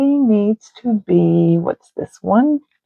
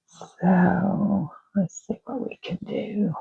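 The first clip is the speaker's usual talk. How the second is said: quiet murmur; 9 dB quieter, slower than usual. Real, not acted. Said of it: "I don't know why I'm whispering".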